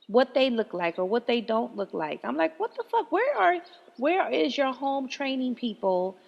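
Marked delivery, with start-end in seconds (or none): 2.6-6.2 high, slowing outraged question; incredulous scolding. Retold or imitated. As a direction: pitch it up in disbelief, then drag home training. Scolding rude people.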